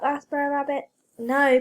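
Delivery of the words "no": panting. A narrator's reading. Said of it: "panted Brer Wolf".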